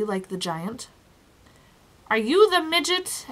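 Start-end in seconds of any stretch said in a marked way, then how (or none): 2.1-3.3 high, uncertain question; tentative questioning; hint of uncertainty. A narrator's reading. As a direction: ask it less than sure, pitch lifted. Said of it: "with a hint of uncertainty in his voice".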